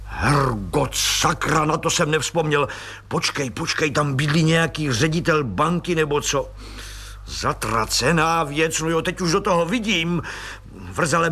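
worked up, thinking aloud; the colonel suddenly sure he's onto something; agitated outburst. Acted. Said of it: "Plukovník bouchl do stolu".

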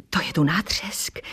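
whispered low, to nátřesk under the breath; girl whispers to Miss Mosová about the crowd; whispered remark. Acted. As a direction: lean in and whisper it to a stranger.

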